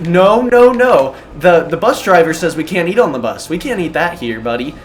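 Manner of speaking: put-on a kid nervously refusing to break the bus rule; anxious rule-follower refusal. Refusing his friend's gummy bears on the bus, loud and anxious. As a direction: blurt out a loud no, then prim. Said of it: "I'm like".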